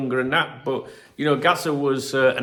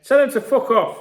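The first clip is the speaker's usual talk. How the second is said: mock angry dad; 12 semitones higher, 6 dB louder than usual. Dad's blunt reply, retold.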